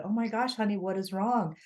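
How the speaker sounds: mildly acted worry for a loved one; retold concern. Wife finding husband in tears.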